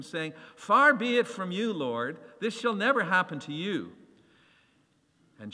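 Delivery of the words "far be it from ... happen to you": loud, much higher rebuke. Acted. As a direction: protest hard, shocked at the idea. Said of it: "began to rebuke him".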